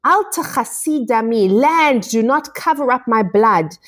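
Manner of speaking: retold bitter cry, pitched high without shouting; bitter outcry. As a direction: cry out in mild, imitated bitterness. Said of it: "hear the bitterness as he screams out".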